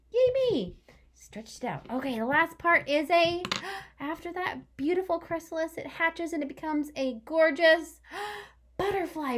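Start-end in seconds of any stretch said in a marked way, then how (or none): 0.1-0.7 high, loud little cheer. Real, not acted. Teacher cheering herself for spelling, high and loud. 3.1-9.4 gasping, high and amazed; wonder. Acted. Teacher marvelling at the butterfly for her class, high.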